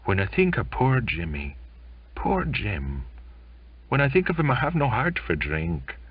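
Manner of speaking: choked, halting grief for a dead shipmate; grieving sailor. Acted. Belfast grieves to the narrator about Jimmy, tearful and halting. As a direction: hold back tears, then break.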